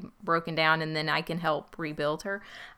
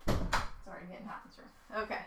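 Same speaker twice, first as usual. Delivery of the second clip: Southern accent; 11 dB quieter, faster than usual. Real, not acted. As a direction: slip into a light Southern accent. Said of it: "Your level of Southern accent just came out".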